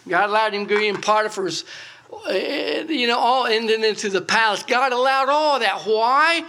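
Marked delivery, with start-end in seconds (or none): 2.1-6.4 building preacher climax. Acted.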